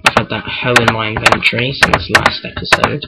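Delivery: a light put-on American accent. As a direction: say it like a casual American, only lightly. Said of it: "I had to be American for that".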